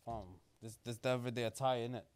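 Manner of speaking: lightly put-on London roadman accent, laid back. To co-host in the bow tie, a light London roadman accent. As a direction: talk like a roadman from the ends, a hint of London. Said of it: "You gonna keep the accent the whole show?".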